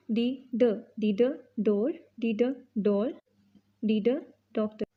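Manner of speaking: ड short and clipped before each word; phonics drill. Shown as a demonstration. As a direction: sound ड then the word. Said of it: "phonics drill".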